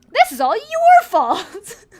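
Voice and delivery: high, loud, slow wailing blame; crying accusation. Acted. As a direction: sob out the blame.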